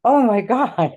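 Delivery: imitating an overwhelmed cry, pitched high; high, drawn-out re-enacted cry of gratitude; retold tearful thanks. Woman on her knees thanking Jesus, re-enacted tearful cry. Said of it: "I fell to my knees crying".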